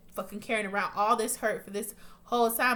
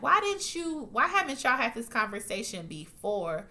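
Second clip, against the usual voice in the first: mock exasperation, pitch jumping at the start; incredulous questioning. Viewer questioning the couple about their talk, incredulous. Teller acts out own exasperated reaction.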